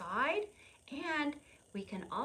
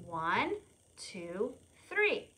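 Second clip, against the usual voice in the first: rising count; slower than usual. Shown as a demonstration. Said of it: "counting down to blow".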